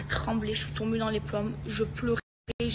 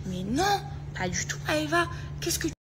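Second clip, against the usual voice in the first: higher-pitched mock denial; dénégation rejouée; 5 semitones higher than usual. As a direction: imitate a friend denying it all, pitched up. Copine qui nie, rejouée. (déni indigné imité)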